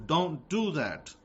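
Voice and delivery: "don't do that." said slowly, every word weighted; slow down and lay down the law; slow emphatic warning. Shown as a demonstration.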